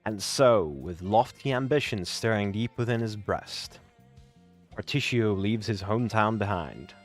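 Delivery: story narration. Acted. Reads the chapter-end narration.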